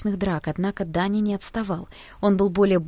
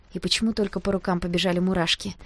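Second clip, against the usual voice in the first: plain reading voice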